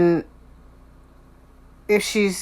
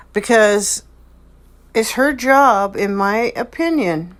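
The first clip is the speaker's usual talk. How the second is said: usual speaking voice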